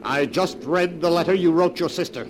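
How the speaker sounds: loud, high, strained confrontation; angry accusation. Acted. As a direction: throw the discovery at her. Accusing wife over her letter.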